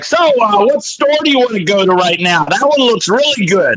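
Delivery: very loud, very high, booming megaphone-like voice. Retelling talking while walking through the mall with a companion, retelling own very loud voice. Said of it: "it's like a very, very loud voice".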